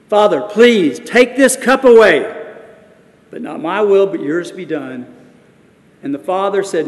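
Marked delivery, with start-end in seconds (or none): 0.1-5.0 desperate prayer. Acted. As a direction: stretch out the plea, then let it go. Jesus praying in Gethsemane.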